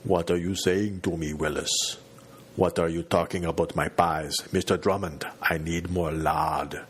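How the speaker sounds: a light hint of a deep, hollow giant's voice, slowed at the end; deep slow Andre the Giant. Narrator lightly imitating a giant actor playing Gary Coleman, slow and deep. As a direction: intone it slowly like a lumbering giant. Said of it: "that impossibly deep hollow of a voice he would intone very slowly".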